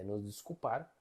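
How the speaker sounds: usual speaking voice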